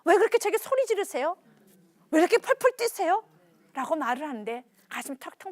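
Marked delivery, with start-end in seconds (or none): 0.0-3.2 mildly heated, raised retort; angry protest. Acted. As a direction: complain back at a parent, acted indignation. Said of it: "화가 나가지고".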